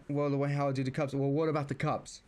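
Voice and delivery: brother cutting in with the same question, hammed-up; retold back-and-forth, mimicking the brother's interruptions; mocking nagging brother. Mimicking brother's interruptions at dinner, lightly hammed-up. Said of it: "He kept on asking the phrase".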